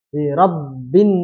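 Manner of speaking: Rabbin with doubled b, held long; correct tasydid. Shown as a demonstration. Teacher modelling Rabbin with the held double b. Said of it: "tasydidnya dua".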